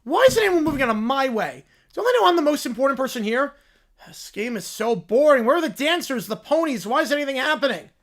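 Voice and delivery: put-on spoiled bratty kid. Bored spoiled kid at the football game, whining. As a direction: pout through it like a spoiled little royal.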